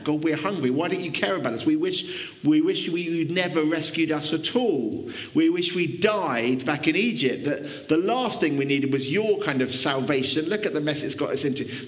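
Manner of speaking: lightly bitter, complaining Israelites; a touch of resentful grumbling at God. Retold or imitated. Preacher voicing Israelites grumbling at God, mild bitterness. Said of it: "there was more bitterness in their voice".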